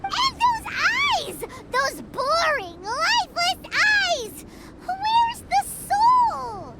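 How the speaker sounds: slow, high melodramatic wail; theatrical lament. Acted. Paimon despairing over her portrait's eyes, slow hammed-up wail. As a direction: mourn the lifeless eyes like a tragedy.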